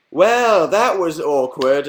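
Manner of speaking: awkward group line. Retold or imitated. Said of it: "everyone was like".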